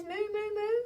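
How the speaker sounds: lightly voiced mooing; a sheep faking a cow. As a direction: moo like a cow to confuse them. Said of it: "He says".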